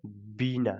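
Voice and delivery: बीना with the ee drawn out; stretched long vowel. Shown as a demonstration. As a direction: hold बी, then fall onto ना in बीना. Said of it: "इसे थोड़ा खींच करके sound आता है".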